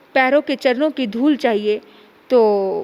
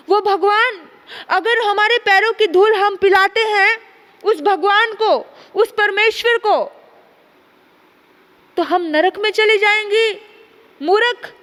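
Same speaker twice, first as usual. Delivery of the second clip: indignant protest; 5 semitones higher than usual. Acted. Queen refuses to give her foot dust, indignant. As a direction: protest that this would damn them.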